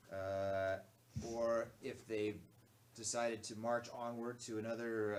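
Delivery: loud, deep commanding voice. Acted. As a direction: give an urgent quest in a deep voice. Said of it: "I'll give him a deep voice".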